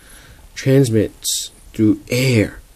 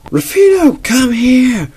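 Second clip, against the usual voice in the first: very high, loud call; hammed-up mom yelling for her kid; 12 semitones higher, 3 dB louder, slower than usual. Mom calls Rufino into the room, very high and loud.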